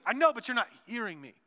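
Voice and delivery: exasperated spouse. Acted. Spouse arguing about not being heard, mildly exasperated. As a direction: push back at a partner who claims to listen. Acted quarrel between spouses.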